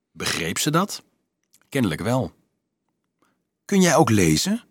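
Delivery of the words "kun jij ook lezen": higher-pitched, awed question. A narrator's reading. Girl asks the clerk's son if he reads, awed. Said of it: "vroeg ze met diep ontzag".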